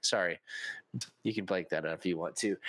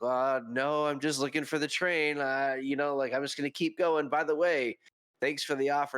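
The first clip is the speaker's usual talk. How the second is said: mildly flustered, higher-pitched polite refusal; caught off guard; 4 semitones higher than usual. Retold or imitated. Conductor declining the couple's offer, caught off guard. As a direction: imitate someone awkwardly backing out. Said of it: "it caught him off guard".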